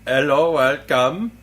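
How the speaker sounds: slow, lightly put-on African accent; mock African accent. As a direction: attempt a drawn-out African-accented welcome. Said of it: "like, an Aborigine fucking African accent".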